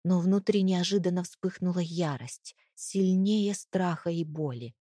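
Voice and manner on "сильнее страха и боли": usual speaking voice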